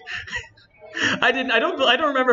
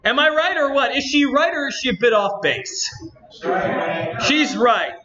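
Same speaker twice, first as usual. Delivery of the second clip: lightly voiced indignant game girl, slightly lifted; a hint of a peeved anime-game heroine; Natsuki voice; 3 semitones higher than usual. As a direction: complain to the audience in a mild character voice. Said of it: "doing the stupid voice".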